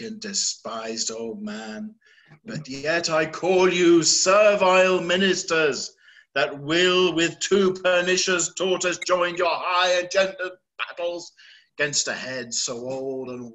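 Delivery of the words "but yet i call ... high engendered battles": louder, rising accusation; accusing roar. Acted. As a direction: throw the charge at the storm. Lear accusing the storm.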